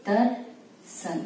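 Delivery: दर्शन drawn out slowly and softly; slow dictation. Shown as a demonstration. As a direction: stretch दर्शन as you write it. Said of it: "इसके बाद word है आपका दर्शन". (दर्शन को धीरे-धीरे बोलना)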